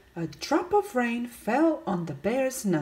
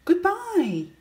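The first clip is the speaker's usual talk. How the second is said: loud goodbye; 9 semitones higher than usual. Acted. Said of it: "said very loudly".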